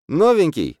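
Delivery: high squeaky shout from behind; piercing squeaky taunt. A narrator's reading. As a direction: squeal it out like a nasty little brat. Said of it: "слышу песклявый голос позади себя".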